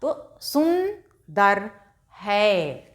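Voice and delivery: सुंदर with a nasalised ं, drawn out slowly; slow सुंदर with a nasal न; nasal sound. Shown as a demonstration. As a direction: let the bindi in सुंदर ring through the nose. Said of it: "इसका नाक से उच्चारण किया जाता है".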